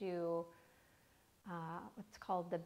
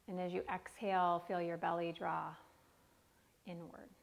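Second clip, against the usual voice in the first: guided meditation. Acted. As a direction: lead the breath gently. Guided breathing instructions.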